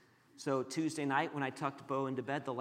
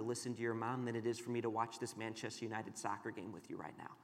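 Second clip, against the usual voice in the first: soft, low, tender explanation; gentle, reassuring father; 4 semitones lower, 6 dB quieter than usual. Retold or imitated. Father down at son's face after grounding him, gentle. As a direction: reassure a child quietly while holding firm.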